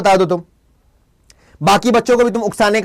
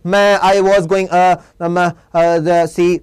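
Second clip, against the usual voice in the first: halting speech full of pauses and fillers; teacher acting out hesitation with fillers; hesitant pauses; 4 semitones lower, much slower than usual. Shown as a demonstration. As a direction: stammer it out with long pauses. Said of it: "pause दिखाने के लिए".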